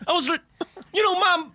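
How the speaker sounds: very high-pitched Black American accent impression; hammed-up imitation of a Black American accent, way up high. Shown as a demonstration. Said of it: "the black accent".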